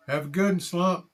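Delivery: high, loud call toward a leaving man; calling after. Acted. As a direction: shout a cheerful goodbye after him. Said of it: "Nipper called after him".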